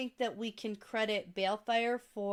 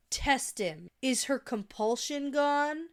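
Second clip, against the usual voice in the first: emotionless Rand; 2 semitones higher, slower than usual. Acted. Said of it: "It's emotionless".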